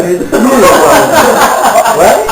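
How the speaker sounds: slow, laughing gloat; laughing triumph. Retold or imitated. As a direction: drag it out with a laugh. Slamming down receipt, laughing.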